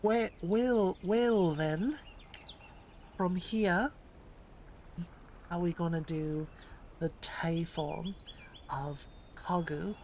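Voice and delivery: put-on American accent. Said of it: "my American accent".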